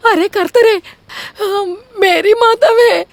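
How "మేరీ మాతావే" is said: tearful dramatic lament; wailing sob. Acted. Wife wailing to mother-in-law that her husband fooled her. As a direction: wail it out to the heavens.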